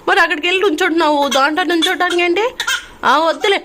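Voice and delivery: high, loud, quick cajoling. Real, not acted. Mother questioning crying baby about standing, high baby talk.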